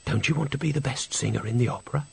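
soft, pleasant coaxing. Acted. Mysterious voice tempts Agnes about the opera, softly pleasant. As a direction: tempt gently, keeping it hushed. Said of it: "It was a pleasant voice".

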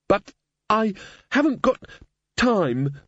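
put-on a girl's high pleading wail. A narrator's reading. Susan wailing at the Raven that she hasn't time, high-pitched. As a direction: Susan wails in protest, a mild wail. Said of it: "Susan wailed".

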